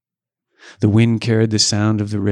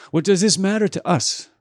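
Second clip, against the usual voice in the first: confused cry; 10 semitones higher than usual. A narrator's reading. Confused voice from behind.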